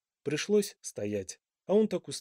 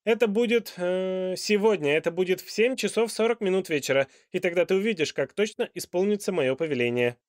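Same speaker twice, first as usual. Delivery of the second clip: loud, high royal argument; a monarch proving his point grandly; lecturing king; 5 semitones higher, 6 dB louder than usual. A narrator's reading. King's voice.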